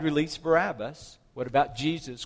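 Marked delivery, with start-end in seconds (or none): 0.0-1.2 mildly raised voice imitating a crowd; crowd's cry. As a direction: retell the crowd's demand a bit louder. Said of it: "The crowd cried".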